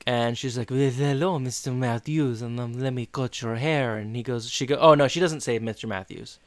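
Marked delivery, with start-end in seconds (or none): 0.7-4.0 imitated French hairdresser's accent. Salon woman offers Eric a haircut, fake French accent. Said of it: "speaking in a really thick French accent".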